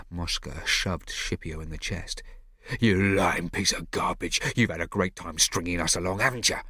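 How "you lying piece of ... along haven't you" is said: angry. Acted. Mosca shoves Scipio, accusing.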